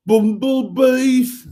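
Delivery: put-on loud, high, drawn-out Black Country accent. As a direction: belt it out slowly in broad Black Country. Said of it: "has to be said in a Black Country accent".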